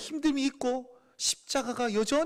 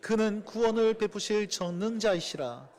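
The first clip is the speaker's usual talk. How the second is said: slow, measured reading of scripture; slower than usual. Acted. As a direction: read the verse slowly and solemnly. (천천히 낭독하는 성경 말씀)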